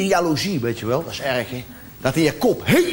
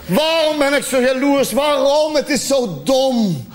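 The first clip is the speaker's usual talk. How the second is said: exasperated outburst; 4 semitones higher, slower than usual. Acted. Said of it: "despair at himself".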